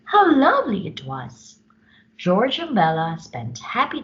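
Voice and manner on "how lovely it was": high, louder delight. A narrator's reading. Narrator delighting in baby Zagazoo. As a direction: gush over it.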